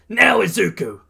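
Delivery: high, urgent battle shout; yelling. A narrator's reading. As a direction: yell the signal to your partner. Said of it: "Bakugo yells".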